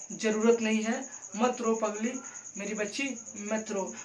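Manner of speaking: a woman consoling the widow, gently. Shown as a demonstration. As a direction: soothe her, tender and close. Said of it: "उस औरत को समझा रही है एक औरत".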